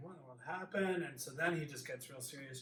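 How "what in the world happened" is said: panicked, tearful, sobbing, pleading voice. Retelling sobbing in an office: imitating own past sobbing. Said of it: "sobbing in his office".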